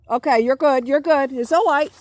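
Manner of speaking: high-pitched soothing, fairly loud; reassuring. Real, not acted. Telling the one who returned it's all right, reassuring.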